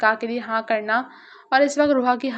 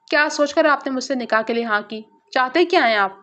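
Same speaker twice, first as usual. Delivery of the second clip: a mild flare of irritation, rising on the last question; irritated demand. Acted. Rooha confronts Zargham about the marriage, mildly irritated. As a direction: snap the questions at him, lightly voiced. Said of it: "بھنا کر پوچھا".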